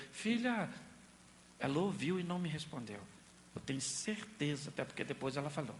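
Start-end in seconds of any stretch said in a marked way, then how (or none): 0.1-0.7 gentle call. Retold or imitated. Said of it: "eu falei".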